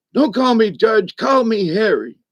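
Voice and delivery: high rasp. Retelling what a judge said to the speaker, in a raspy voice imitating Harry. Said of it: "he has this raspy voice like this".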